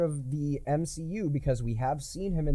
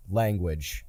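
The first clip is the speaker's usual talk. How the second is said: Sam Wilson; 7 semitones lower, 4 dB quieter than usual. Acted. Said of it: "looks him dead in the eye and goes".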